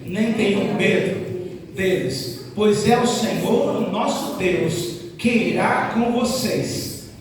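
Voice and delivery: slow, solemn Bible reading; scripture reading. Acted. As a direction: read the verse slowly and deliberately.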